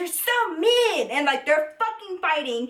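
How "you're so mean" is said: put-on high, slow, whiny little-girl voice. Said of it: "She was like".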